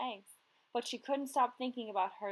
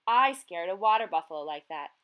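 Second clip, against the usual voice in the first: squawked; 9 dB louder than usual. A narrator's reading. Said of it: "she squawked".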